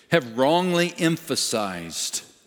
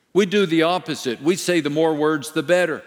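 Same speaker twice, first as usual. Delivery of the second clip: ordinary talk, nothing marked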